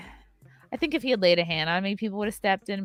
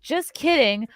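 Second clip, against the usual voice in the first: higher, laughing fake retraction; mocking laugh; 7 semitones higher, 4 dB louder, slower than usual. Mimicking the fan coming back, laughing it off. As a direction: ham up his smug "just kidding". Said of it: "He goes".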